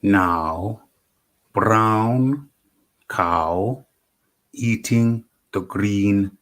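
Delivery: loud, slow, overly enunciated drill; elocution. Pretend. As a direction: boom each word like a voice coach. Tongue-twister drill opening show.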